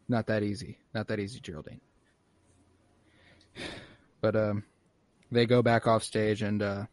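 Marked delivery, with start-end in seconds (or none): 0.1-1.8 quiet teasing. Retold or imitated. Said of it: "it's like".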